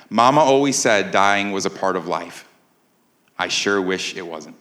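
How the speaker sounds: put-on low, softened simple Southern accent; lightly voiced simple-minded Southern accent. Simple man at his love's grave, in a Southern accent. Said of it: "in that simple Southern accent".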